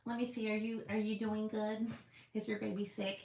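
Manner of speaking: mock expert. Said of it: "I'm like".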